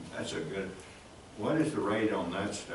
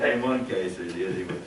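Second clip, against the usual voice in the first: laughing; 2 semitones lower, 4 dB louder than usual. Real, not acted. Joking about staff scaring public.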